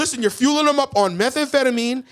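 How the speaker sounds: rising, laughing through the words; laughing rant. Real, not acted. Laughing at his own joke to his co-host. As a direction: crack up mid-rant. Laughing while ranting about propaganda.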